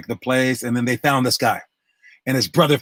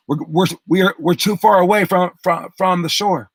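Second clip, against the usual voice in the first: higher-pitched, stumbling retold worry; retold alarm; 5 semitones higher than usual. Brother warns his racing rival out at sea, alarmed. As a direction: act out mild alarm, tripping over the start.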